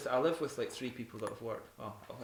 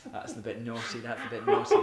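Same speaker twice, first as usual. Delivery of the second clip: laughing; 8 dB louder than usual. Real, not acted. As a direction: laugh helplessly while saying it. Laughing at a naughty joke.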